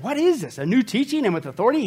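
high-pitched, astonished questioning; amazed. Acted. Crowd asking each other about Jesus, amazed. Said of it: "The people were amazed".

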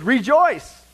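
loud, high, slow Rejoice in the Lord always; proclaiming. Acted. Preacher proclaiming Paul's command, loud and slow. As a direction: ring it out like a herald. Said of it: "And so Paul says".

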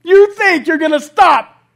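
slow, loud, incredulous mock challenge; drawn-out, booming disbelief; God on the throne. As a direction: laugh off their threat from the throne. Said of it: "on the throne going".

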